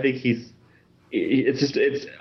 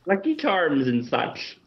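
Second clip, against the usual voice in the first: high, badly faked Irish; Irish by way of a witch pirate; witchy Irish accent; 4 semitones higher than usual. Guest tries Irish accent, sounds like a witch. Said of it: "You sounded kinda like a witch".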